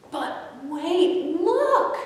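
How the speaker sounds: a doll squealing with hope; cried out. Acted. The doll crying out to the toys, very high and excited. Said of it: "cried a doll".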